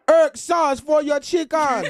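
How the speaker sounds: put-on high laughing Jamaican accent; hammed-up Jamaican accent, laughing. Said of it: "the Jamaican accent".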